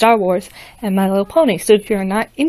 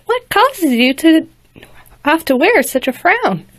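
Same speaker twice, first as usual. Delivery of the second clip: lightly voiced caring princess; kindly princess; 8 semitones higher than usual. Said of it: "she said, looking down".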